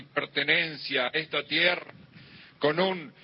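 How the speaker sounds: rousing patriotic ceremony speech; booming balcony speech. Acted. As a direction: address the crowd, building to a cry. Discurso patriótico en un acto. (discurso patriótico encendido)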